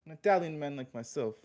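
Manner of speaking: laying on the Italian mobster charm; smooth-talking wise guy pitching a date; Italian mobster accent. Acted. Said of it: "Your accent's just so good".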